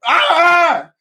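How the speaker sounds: high-pitched yelled "ah"; imitated shout. Podcast listener imitates Matt shouting in his earphones, high mock yell. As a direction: mimic a distant outburst of shouting. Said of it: "Matt shouting".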